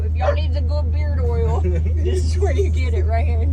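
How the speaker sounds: high, loud sales voice; pitch. Real, not acted. Owner pitching beard oil to viewers, high and upbeat. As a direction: pitch the product to the camera.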